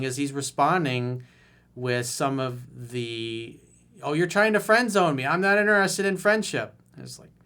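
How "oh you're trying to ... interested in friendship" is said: higher, louder mock whine; mock whiny guy. Coach mocking the client's defensive text, mock whine. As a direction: mimic the offended guy, hammed up.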